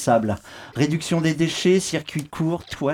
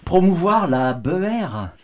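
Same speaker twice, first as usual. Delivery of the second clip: pompous statesman. Retold or imitated. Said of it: "aurait dit le plus petit de nos grands hommes".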